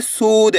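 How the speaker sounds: सूद with the ऊ pulled long; stretched long vowel. Shown as a demonstration. Teacher telling pupils to stretch it, drawn-out ऊ. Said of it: "खींच के पढ़ना है".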